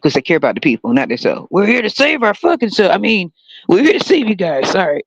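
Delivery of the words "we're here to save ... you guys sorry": lightly voiced politician, a touch higher; mock politician. Mocking politicians caught out, a lightly voiced politician. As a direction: play a slick candidate who slips up. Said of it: "That's how they sound".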